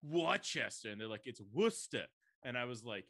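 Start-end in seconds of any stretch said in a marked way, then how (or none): 0.0-0.9 badly faked American accent, mocking; horrible fake American accent. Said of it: "a horrible fake American accent". 1.3-2.0 put-on British quote slipping into New York accent; "Worcester" as WUSS-tah, botched New York-ish accent; accidental New York accent. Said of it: "New York accent".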